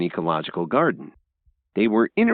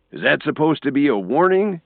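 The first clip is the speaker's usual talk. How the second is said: higher, louder grave challenge; louder menacing retort; 8 semitones higher, 4 dB louder than usual. A narrator's reading. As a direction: question the threat darkly. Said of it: "Thomas said gravely".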